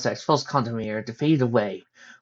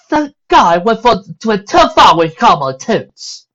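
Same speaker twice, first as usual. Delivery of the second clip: slow, louder grunted remark; 9 semitones higher, 10 dB louder, slower than usual. Acted. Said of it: "Rarity grunted".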